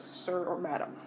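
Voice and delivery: ordinary delivery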